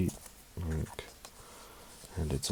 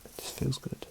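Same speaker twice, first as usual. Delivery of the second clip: choked up; 7 semitones higher, 4 dB quieter than usual. Real, not acted. Reviewer welling up over album.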